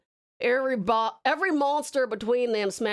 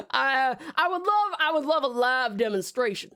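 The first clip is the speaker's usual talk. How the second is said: tickled cowboy; 5 semitones higher than usual. Pretend. Arthur asking for a live demonstration, tickled cowboy. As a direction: relish the idea in a cowboy voice.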